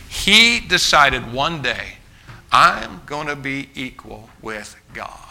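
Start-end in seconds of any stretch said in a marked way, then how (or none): 2.5-5.2 slow, half-whispered inner vow; hushed scheming to oneself; secret resolve. Acted. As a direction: murmur it slowly, like a private decision. Voices Satan's secret decision.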